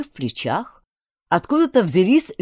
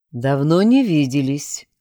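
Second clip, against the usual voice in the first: muffled; 4 dB louder than usual. Acted. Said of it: "глухо сказал Альберт".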